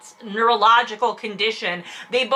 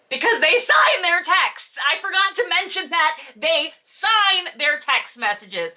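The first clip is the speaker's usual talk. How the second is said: can you believe it; incredulous; 6 semitones higher than usual. Real, not acted. Exasperated aside.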